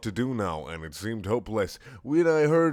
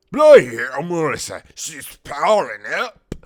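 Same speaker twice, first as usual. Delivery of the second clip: high, very loud panicked shout; hammed-up high scream; screamed alarm; 7 semitones higher, 15 dB louder, slower than usual. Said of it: "Wheatley screamed".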